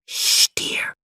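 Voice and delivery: hushed whisper; mother hushing in a whisper. A narrator's reading. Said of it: "she whispered".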